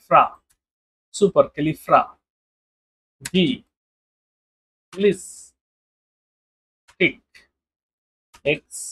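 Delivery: long word broken into syllables with pauses. Shown as a demonstration. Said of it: "তাহলে আমি দেখি". (শব্দটা ভেঙে ভেঙে ধীরে উচ্চারণ)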